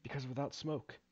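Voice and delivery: lightly voiced game character explaining the job; a hint of a halting, polite foreman; hesitant mine worker. Reads mine worker's explanation aloud.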